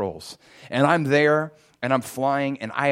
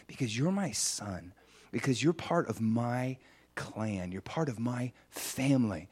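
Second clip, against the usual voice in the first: tender affirmation; 2 semitones lower, 7 dB quieter than usual. Retold or imitated. Father claims him as son.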